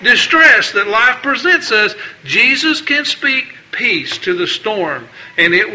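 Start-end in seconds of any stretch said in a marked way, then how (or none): 0.0-1.9 higher, urgent plea to the Lord; a preacher acting out a frantic prayer; desperate prayer. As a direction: cry out for rescue like you're sinking. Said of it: "when we cry out and say".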